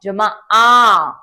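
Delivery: द जमा आ जमा आ और जमा त, syllable by syllable, slow; spelling it out slowly. Shown as a demonstration. Teacher spelling out दांत for children, slowly. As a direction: sound it out piece by piece, very slow. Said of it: "मिलाते हैं".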